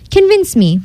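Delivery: high, lightly challenging cat; a hint of a sly cat's dare; lightly voiced cat. A narrator's reading.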